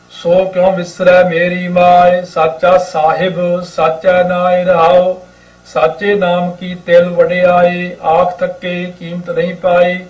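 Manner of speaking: slow, measured chanting read of the hymn; unhurried gurbani recitation; scripture recitation. Acted. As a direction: recite each word slowly and devoutly.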